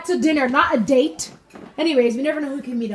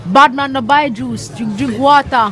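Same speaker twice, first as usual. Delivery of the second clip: slow, hammed-up pidgin voice; mock broken English; 4 dB louder than usual. Mom jokes to family about never buying juice, hammed-up pidgin. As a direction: play a stubborn cheap man, slowly. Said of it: "mock broken English".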